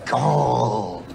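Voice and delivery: cartoonish cry falling into a drawn-out word; a hint of a greedy cartoon duck; Daffy Duck. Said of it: "You're like Daffy Duck".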